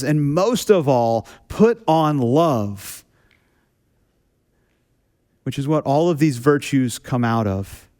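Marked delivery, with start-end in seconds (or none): 0.0-3.0 very slow, lingering; slow scripture quote. Retold or imitated. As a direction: draw out each word tenderly. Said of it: "And Paul says".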